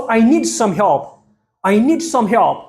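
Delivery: slow, careful teacher pronunciation; slow model sentence. Shown as a demonstration. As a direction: lay out each word of "I need some help". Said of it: "ብፕሮናንሴሽን ተጠቒሞም ከመይ ከም ዘንብብዎ". (ቀስ ኢልካ ብጥንቃቐ ምድምጻጽ)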